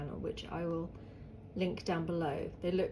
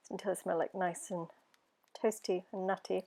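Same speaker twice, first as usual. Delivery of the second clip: hoarse from hay fever; rough, hoarse throat; 5 dB quieter than usual. Real, not acted. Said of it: "Sorry if I sound like a chronic smoker".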